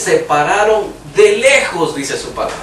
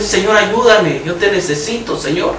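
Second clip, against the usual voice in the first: retold plea to God. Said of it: "Yo le he gritado al Señor".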